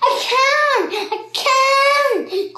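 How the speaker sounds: high, loud and laughing; giddy laughing cry of delight; excited cry. A narrator's reading. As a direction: squeal it with glee. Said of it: "cried Missus Twit".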